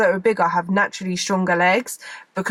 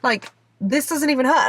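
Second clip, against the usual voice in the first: mock baffled questioning; short, bewildered reaction; confused; 4 semitones higher than usual. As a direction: act out puzzled disbelief. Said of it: "I was so confused".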